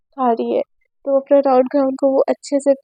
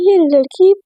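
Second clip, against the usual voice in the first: mother's voice; 3 semitones higher than usual. Acted. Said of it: "तो उसके mummy बोलते कि".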